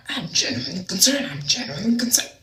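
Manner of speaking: high, squeaky put-on earnestness; exaggerated high-voiced concern; mock concern. Acts out the man's earnest concern.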